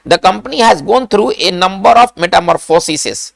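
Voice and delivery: slow, measured dictation. Shown as a demonstration. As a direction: read it out slowly for note-taking. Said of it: "कैसे इसको हम note करेंगे?". (धीरे-धीरे note कराते हुए)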